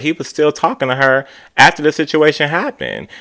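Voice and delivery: high, put-on voice for Gizelle's point; mimicking Gizelle. Host voicing Gizelle calling out Robin, high and pointed. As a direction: play up Gizelle's pointed remark. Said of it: "She's like".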